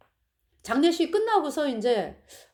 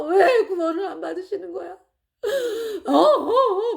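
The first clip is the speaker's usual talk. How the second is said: sobbing wail; 5 semitones higher than usual. Retold or imitated. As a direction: wail it while weeping. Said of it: "제가 막 울었어요".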